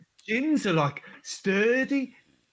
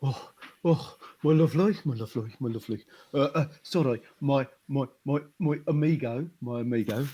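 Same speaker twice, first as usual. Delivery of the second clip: a light put-on Spanish lilt, out of breath; lightly voiced Spanish character puffing after the hill; mock Spanish accent; 5 semitones lower than usual. Spanish character greets friend in a light mock Spanish accent. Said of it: "you've really been working on your accent".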